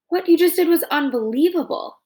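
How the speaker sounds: lightly voiced calm robot; even, measured robot delivery. Robot Roz speaks.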